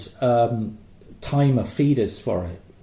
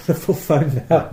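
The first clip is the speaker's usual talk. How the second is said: higher Yorkshire voice, article dropped; Yorkshire accent; 4 semitones higher, 5 dB louder than usual. Acted. Joking about Yorkshire call centres, mock Yorkshire accent. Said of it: "not many call centres in Yorkshire".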